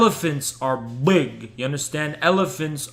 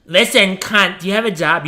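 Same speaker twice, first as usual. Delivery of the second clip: mock college boy voice; 4 semitones higher, 5 dB louder, faster than usual. Streamer parrots the caller's insult back, higher and louder. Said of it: "college boy accent".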